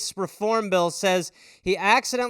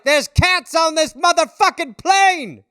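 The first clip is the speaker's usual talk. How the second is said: louder, slow, outraged yell at the cabin; Sam Jackson; 6 semitones higher, 6 dB louder, slower than usual. Retold or imitated. A passenger yelling about cats on the plane, outraged slow yell. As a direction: bellow it like an enraged action star. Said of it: "Sam Jackson in the back of the plane".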